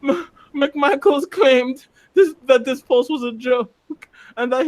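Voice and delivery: stammering high through leftover laughter; laughing through words. Real, not acted. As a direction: still cracking up while reading the name. Still laughing while reading.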